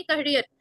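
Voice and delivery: "करियर" leaning on रियर; short क, then press रियर in "करियर"; pressure on second part. Shown as a demonstration. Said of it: "रियर पे थोड़ा दबाव रखना है".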